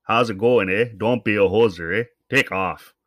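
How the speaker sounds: put-on lightly done hoser Canadian accent; a playful mock McKenzie brothers imitation; Bob and Doug McKenzie. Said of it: "Bob and Doug McKenzie".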